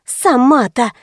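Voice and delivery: usual speaking voice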